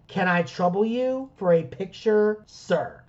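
slow, careful, deferential request; extremely polite. Retold or imitated. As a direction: ask as courteously as you possibly can. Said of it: "to be extremely polite".

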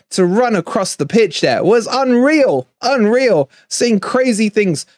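excited. Real, not acted. Excited about celebration.

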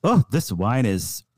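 lightly put-on British wine taster; a hint of mannered British; mock British accent. Podcaster voices the British contestant tasting wine, mock British accent. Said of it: "he's like, the British guy".

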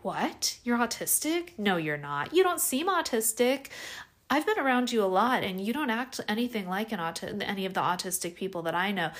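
hammed-up skeptical friend scoffing; mock disbelief. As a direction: play the dismissive friend who can't believe it. Acted disbelieving friend dismissing autism.

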